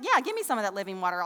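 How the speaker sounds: quick, eager acted reply; intrigued, eager. Intrigued woman answers Jesus's offer of living water, quick and eager. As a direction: jump at the offer, speaking fast. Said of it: "So she's intrigued".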